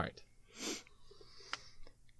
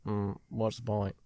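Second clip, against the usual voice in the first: Forrest Gump-like drawl; 5 dB quieter than usual. Acted. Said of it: "Now I sound like Forrest Gump".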